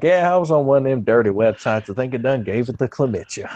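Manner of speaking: lightly voiced clueless country bumpkin; mock hick. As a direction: play dumb in a light hick voice. Acts clueless hick trolling the scammer.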